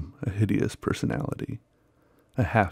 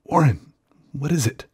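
frightened, higher call down the line; terrified calling; 6 semitones higher than usual. Acted. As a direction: call out in fear. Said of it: "Terrified, I continued to repeat".

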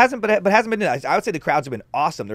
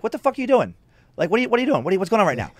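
higher, exasperated demand; retold scolding in a public place; mock confrontation; 5 semitones higher, much faster than usual. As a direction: call out a stranger, incredulous. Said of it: "very quick to be like".

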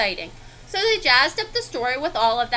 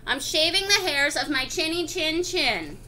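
yelling back. Acted. Second pig dismissing wolf at his door, mild yell. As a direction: yell him away, then ease off. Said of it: "He yelled back".

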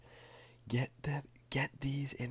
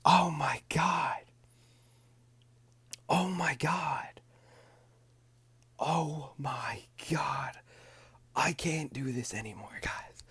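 loud, slow, disbelieving whisper; the whisper keeps breaking out loud; overexcited whisper; 3 semitones higher, 8 dB louder than usual. Real, not acted. Still reeling from the pull, a loud slow whisper. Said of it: "I can't whisper".

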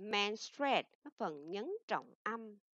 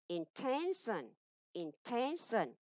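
Intention with TEN drawn out, higher and louder; stress on second syllable; 3 semitones higher, 5 dB louder, slower than usual. Shown as a demonstration. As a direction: punch the middle syllable of intention, slowly. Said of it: "nhấn âm thứ hai".

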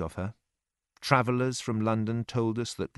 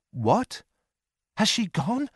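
crying out; 10 semitones higher, slower than usual. A narrator's reading. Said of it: "I cried wildly".

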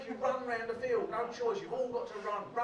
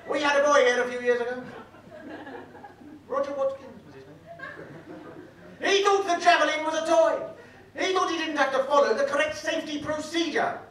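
pompous safety lecturer; 4 semitones higher, 11 dB louder than usual. Retold or imitated. Teacher giving the boys a dramatic javelin safety lecture, booming. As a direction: boom it like a self-important teacher scaring kids.

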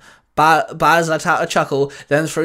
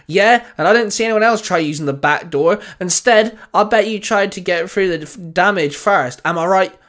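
raised, pushy sneer; 4 semitones higher, 3 dB louder than usual. Acted. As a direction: throw it back at the captain with a sneer. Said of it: "Baz sneered".

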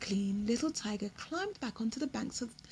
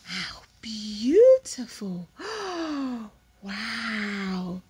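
awed whisper; 6 dB louder, much slower than usual. Real, not acted. Awed reaction.

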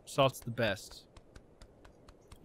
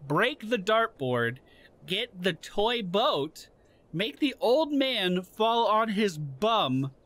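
mock briefing. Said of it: "this just in from the higher-ups".

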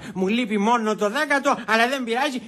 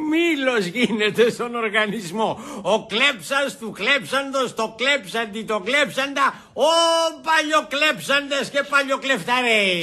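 tipsy, swelling tirade; drunken ranting. Acted. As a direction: rant it out, stretching every thief word. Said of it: "μη φωνάζεις".

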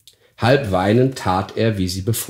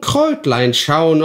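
Kräutlein schauen repeated lower and slow; lower croaking hag; 7 semitones higher, 3 dB louder than usual. Acted. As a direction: let Kräutlein schauen sink back into a muttering crone. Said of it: "krächzender Stimme".

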